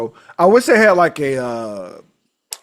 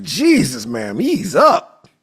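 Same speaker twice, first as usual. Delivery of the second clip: exasperated; 3 semitones higher, 5 dB louder, much slower than usual. Retold or imitated. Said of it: "I was like".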